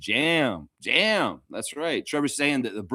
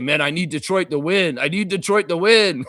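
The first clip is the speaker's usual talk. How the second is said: mock pleading; 4 semitones higher, 5 dB louder than usual. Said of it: "He said".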